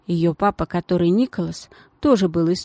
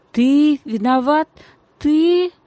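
high, loud indignant outburst; flaring up; 8 semitones higher, 5 dB louder, slower than usual. Acted. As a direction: blow up in disbelief. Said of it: "снова вспылила девочка". (вспышка возмущения, высоко и громко)

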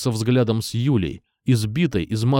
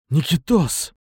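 higher-pitched name call; strained appeal, moderately raised; pained call; 4 semitones higher, slower than usual. A narrator's reading. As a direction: call out to him, just wounded. Calling again after being shot.

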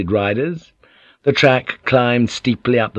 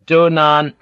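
laconic; 7 semitones higher, 4 dB louder than usual. A narrator's reading. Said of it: "said Mura laconically".

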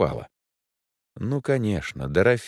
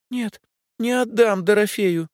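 put-on much higher, stubborn child; little girl refusing; 14 semitones higher, 3 dB louder than usual. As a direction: clutch the pig and refuse. Девочка защищает свинку. (упрямая девочка, высоким голосом)

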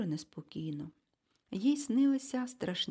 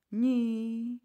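louder, alarmed no with a changed voice; even more agitated cry; 4 semitones higher, 5 dB louder than usual. A narrator's reading. Egon protests even more strongly, agitated cry. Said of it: "вигукнув пан Егон іще схвильованіше".

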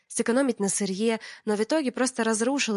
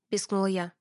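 usual speaking voice

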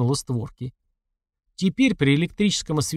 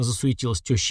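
usual speaking voice

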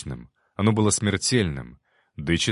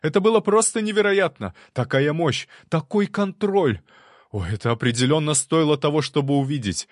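much higher and louder, thrilled; excited; 7 semitones higher, 3 dB louder than usual. A narrator's reading. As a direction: gush with wild delight. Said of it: "воскликнул он, хлопая в ладоши".

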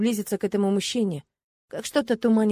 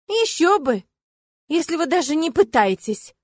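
higher, mocking scoff; snorting, scornful; 7 semitones higher, 4 dB louder than usual. A narrator's reading. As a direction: scoff at him. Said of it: "фыркнула я". (насмешливо фыркнув)

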